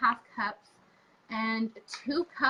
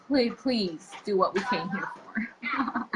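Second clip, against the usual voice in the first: pleading whisper; 2 semitones lower, 3 dB louder, slower than usual. Retold or imitated. Begging video makers.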